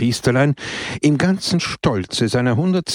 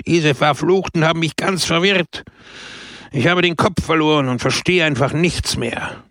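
raised, flustered shout; 5 semitones higher than usual. Acted. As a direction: yell it, confused and heated. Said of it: "Pepone schrie".

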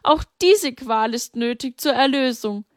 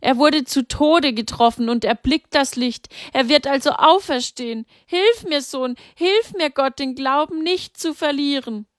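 higher, desperate pleading mother; cling to faith while crying out for help; despairing cry; 6 semitones higher than usual. A narrator's reading. Mary cries out to her son and God, despairing. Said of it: "rief Maria verzweifelt".

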